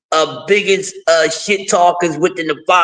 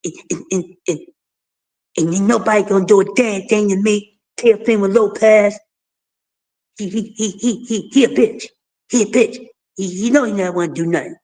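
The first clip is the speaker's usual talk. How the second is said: lightly mimicked monotone, stammering on small words; halting, slightly tongue-tied boxer voice; Devin Haney. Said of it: "so I'm gonna be talking like Dev".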